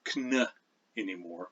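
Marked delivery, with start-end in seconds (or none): 0.0-0.5 kn with the K pronounced before the N; sounded kn cluster. Shown as a demonstration. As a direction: isolate kn, both consonants sounded. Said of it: "not allowed in the rules of English".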